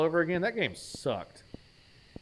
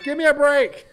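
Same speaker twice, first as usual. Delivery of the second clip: hammed-up Irish shout, much higher and louder; mock Irish accent; 11 semitones higher, 10 dB louder than usual. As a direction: yell it in a bad Irish accent. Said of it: "When did he become Irish?".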